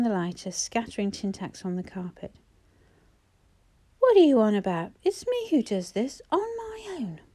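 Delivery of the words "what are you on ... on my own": a loud, rising shout that jumps up on the last words; mother rounding on the teacher, loud and shrill; bullying screech. A narrator's reading. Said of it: "Missus Powell's bullying screech".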